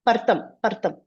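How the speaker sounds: "Partam, partam" as par-tam, sounds swapped; wrong r-first pronunciation. Shown as a demonstration. Teacher warning about a misreading, "Partam, partam" with r ahead of t. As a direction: say "Partam, partam" with r before t. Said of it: "you should not tell".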